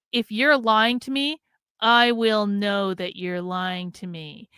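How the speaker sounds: slow, drawn-out warning; emphatic warning. Real, not acted. Warning listeners not to lie to her, slow and emphatic. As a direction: stretch it out so each word lands. Warns listeners she detects lies.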